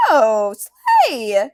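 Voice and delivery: laughing, shouted "slay"; loud delighted squeal; excited shriek. Real, not acted. Cohost finds translator's photo, squeals with delight.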